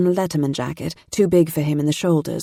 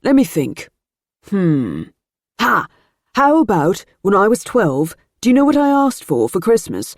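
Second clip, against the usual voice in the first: excited; 4 semitones higher, 4 dB louder than usual. A narrator's reading. Rupert builds up his joke.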